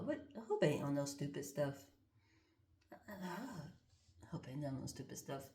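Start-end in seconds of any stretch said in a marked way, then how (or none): 2.9-5.4 slow, much softer whispered worry; hushed, slowed-down repeat. Real, not acted. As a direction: breathe it under your breath. Repeats line, second time whispered.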